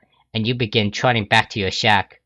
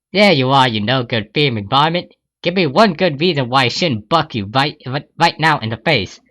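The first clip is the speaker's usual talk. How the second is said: angry A J; 3 semitones higher than usual. Acted. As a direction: threaten the thief. A J confronts thief.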